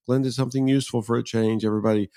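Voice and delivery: a lightly mocking fanfare, quick in the middle; mock celebration. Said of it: "sounded to me like she was making a big deal".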